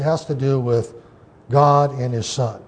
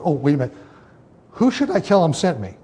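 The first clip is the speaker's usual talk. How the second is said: questioning afterthought; 3 semitones higher, faster than usual. Retold or imitated. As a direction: stop short, then ask with raised pitch. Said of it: "almost as a party thought, he goes".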